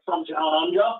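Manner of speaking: lightly attempted Australian accent with a Scottish film-star touch; half-hearted Australian impression on request; Sean Connery. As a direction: have an unsure go at a mock Australian accent. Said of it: "Do an Australian Sean Connery".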